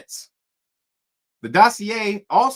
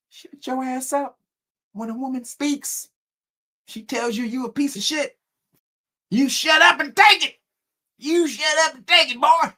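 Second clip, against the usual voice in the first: mock enforcer; 8 semitones higher than usual. Mocking England's rule that men obey women, in a high voice building to a shout.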